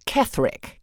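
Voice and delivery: unvoiced rehearsal of Ketherick and Kethwick; whispered tries. Shown as a demonstration. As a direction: whisper the name, trying Ketherick then Kethwick. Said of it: "that's more fun".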